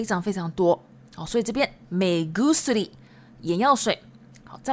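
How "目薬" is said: 目薬 with the k of kusuri voiced to a g; voiced consonant. Shown as a demonstration. Teacher showing voicing in compounds, 目薬 said with g for k. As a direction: say 目薬 as me-gusuri, with a hard g. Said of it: "常常会浊音哦".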